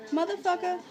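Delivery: retold yelling at a scammer; angry rant. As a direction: chew him out, furious. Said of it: "So I'm like".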